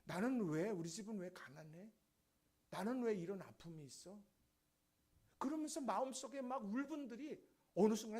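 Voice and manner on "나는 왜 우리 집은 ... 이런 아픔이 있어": understated irritated complaint; retold resentment. Grandson resenting life with grandmother in poverty, mild annoyance. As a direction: lightly act out pent-up grievance. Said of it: "할머니에게 짜증 낼 때".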